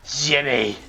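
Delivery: high, loud cry of a name; calling out. Real, not acted. Player crying out to Jimmy who's coming, loud call. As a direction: cry out in protest.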